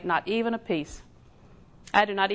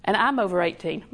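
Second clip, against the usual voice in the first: lower, gentle, kindly reply; 3 semitones lower than usual. Retold or imitated. Preacher answering a defiant teen, very kindly. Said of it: "And I said very kindly".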